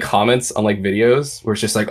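usual speaking voice

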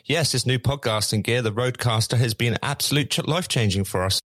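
put-on posh English accent. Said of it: "actually a rich middle-class Englishman".

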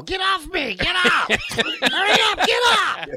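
high panicked shouts from under a pile; hammed-up trapped player yelling get off. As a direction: scream to get out from the bottom of the pile. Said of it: "up under the pile".

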